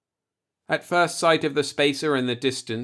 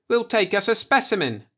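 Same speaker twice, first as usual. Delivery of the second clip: put-on much higher, loud drunken shout; 10 semitones higher, 4 dB louder than usual. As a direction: yell it out to the crew. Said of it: "Farley shouted".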